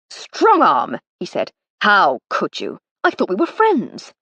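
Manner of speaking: a touch of mock hurt from the brother; Harry, indignant. Harry protesting that his friends bet against him, mock hurt.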